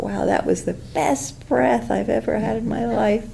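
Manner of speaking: a teasing, over-the-top wow; mock excitement. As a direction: ham up being thrilled by a breath. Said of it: "we don't get really excited about".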